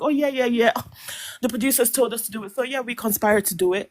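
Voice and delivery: imitating a frivolous, offhand admission; throwaway remark. Panelist mimicking a callous throwaway comment, offhand. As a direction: toss it off as if it were nothing. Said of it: "It felt like a throwaway comment".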